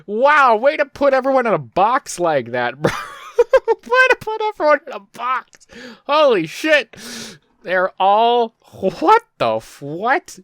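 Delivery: high and loud through laughter; cackling, can't believe it; incredulous laughing rant; laughing disbelief. Real, not acted.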